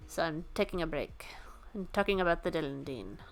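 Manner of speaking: a soft unvoiced whisper; hushed aside. Real, not acted. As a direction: whisper it like a confession. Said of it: "in this weird accent".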